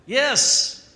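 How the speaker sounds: loud high cry of joy; exultant yes. Acted. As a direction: shout it out like a cheer. Preacher exults for overjoyed Adam.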